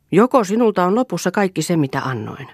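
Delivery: clipped reproach about money spent; a bit harsh. Acted. Husband Eero presses his wife Lea over money, a little hard. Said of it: "tulivat sanat vähän kovalla äänellä".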